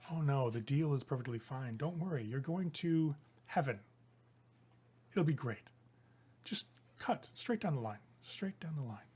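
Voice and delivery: quiet, reassuring persuasion; lightly acted soothing tempter; soft coaxing. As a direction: gently talk someone into it, voice dropping. Vanathra coaxing a boy to cut.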